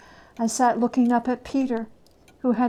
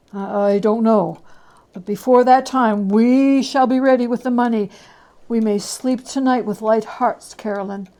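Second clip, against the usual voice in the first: louder, relieved reassurance; relieved husband; 7 dB louder than usual. Acted. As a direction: reassure your wife the debt can wait.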